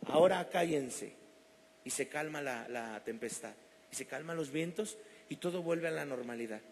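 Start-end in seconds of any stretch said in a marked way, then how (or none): 0.1-1.1 commanding the winds. Retold or imitated. Man in an airplane orders the winds, with authority. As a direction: speak with full spiritual authority. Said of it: "con autoridad y con identidad".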